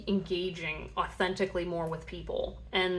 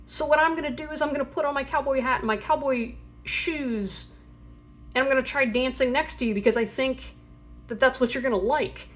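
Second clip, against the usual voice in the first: high, bright-eyed eager voice, louder; eager to please; 6 semitones higher, 4 dB louder than usual. Pretend. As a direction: play the shy admirer desperate to impress. Shy ghost person trying to please.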